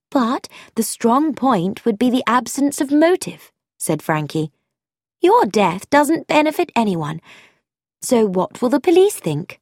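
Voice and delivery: reasoning aloud, eager; young woman voiced with brisk energy; Frankie, eager.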